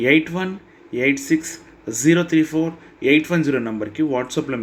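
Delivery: fast ad read, number digit by digit; quick promo read. Acted. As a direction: rattle off the offer and phone number briskly. Channel promo read mid-lesson. (వేగంగా ప్రకటన చదవడం)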